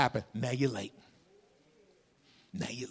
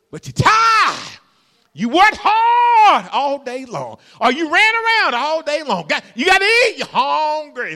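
full-force preaching; 12 semitones higher, 12 dB louder than usual. Acted. Preacher whooping to the congregation about being tired. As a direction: whoop it up over the weary congregation.

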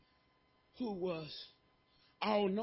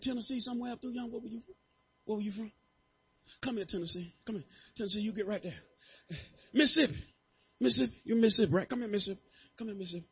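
ordinary talk, nothing marked

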